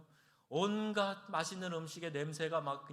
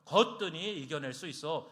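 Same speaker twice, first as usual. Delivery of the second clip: loud, cocky boast of unshakable faith; puffed-up, self-assured declaration; proud boast; 5 semitones higher, 7 dB louder than usual. Retold or imitated. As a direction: brag like nothing could ever shake you. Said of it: "이게 자만이에요".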